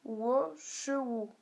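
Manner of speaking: "wo" falling only, then "che ou"; linked tones. Shown as a demonstration. Teacher showing tone linking, "wo" cut to a fall. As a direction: drop "wo" without rising, join "che ou". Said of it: "donc on le fait en quatrième ton".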